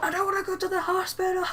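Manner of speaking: high, whiny fake wail; mock crying. Hurt kid refusing to go to the hospital, mock crying. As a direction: wail it like a kid in tears, hammed-up.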